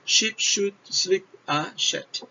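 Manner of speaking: tongue twister. Shown as a demonstration. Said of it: "só o som do S. Olha lá".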